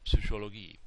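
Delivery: Psychologie said fast with a light ps; natural German Psychologie; quick natural ps. Shown as a demonstration. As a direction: rattle off Psychologie. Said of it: "you start to say this rather quickly".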